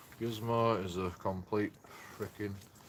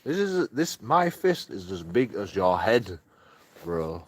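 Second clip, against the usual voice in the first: mock tough-guy challenge; 3 semitones higher, 4 dB louder than usual. Mock fight talk to dog.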